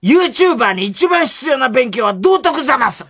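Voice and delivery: high slow haughty madam; snobbish zamasu lady. Acted. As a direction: deliver it like a prim rich lady. Punchline in zamasu voice.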